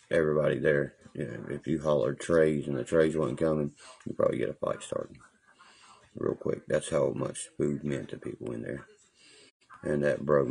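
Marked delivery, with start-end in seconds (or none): 4.0-6.7 hushed unvoiced aside; whispering. Real, not acted. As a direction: drop to a whisper.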